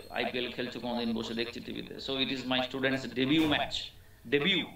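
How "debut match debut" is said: "debut" said as de-byu, no T sound; silent T in debut. Shown as a demonstration. English teacher models debut for students, T silent. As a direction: end "debut" on a long yu, T silent. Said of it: "ডেবিউ, টি হবে না".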